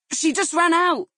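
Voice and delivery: high, loud panicked protest; exclaiming. Acted. Taxi driver to crowd over the child, loud panicked exclaiming. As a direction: blurt it out, desperate to be believed. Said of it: "he exclaimed".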